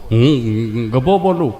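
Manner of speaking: low, slow, stuck fellow; Gabho on the phone. Acted. Gabho calls the sarpanch from the ditch, slow and low. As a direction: drag it out like a man stuck in water.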